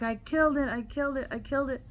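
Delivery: lightly acted distraught cry. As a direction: imitate tearful, repeated confession. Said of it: "I was just crying and crying".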